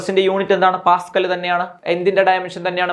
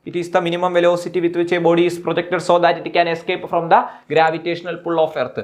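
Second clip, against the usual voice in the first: slow, deliberate dictation pace; dictating a definition to students, slowly; much slower than usual. Shown as a demonstration. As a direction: spell it out word by word for notes. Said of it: "dictating definition slowly".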